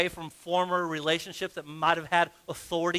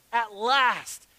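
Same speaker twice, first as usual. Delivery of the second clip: louder, higher exclamation of relief; exclaimed; 4 semitones higher, 4 dB louder than usual. Acted. Adam on first seeing the woman, exclaiming. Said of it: "the man exclaimed".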